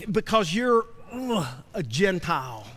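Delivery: acted disdain, dropping low after a pause; mock disgust. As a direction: play a Pharisee recoiling with a mock "ugh". Acting a Pharisee scorning Gentiles.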